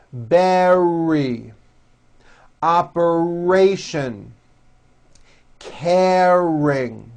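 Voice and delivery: each word with a clear middle R; strong middle R. Shown as a demonstration. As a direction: model the words for repetition. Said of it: "Repeat after me".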